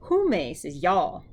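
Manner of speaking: slow, drawn-out gloss. Shown as a demonstration. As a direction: stretch each word. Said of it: "slow gloss".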